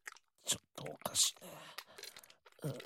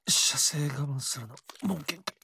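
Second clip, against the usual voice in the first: louder, strained, holding back; straining near climax; 5 dB louder than usual. Acted. Lover telling his partner he can't hold back, louder strained voice. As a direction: push through the words, at the limit.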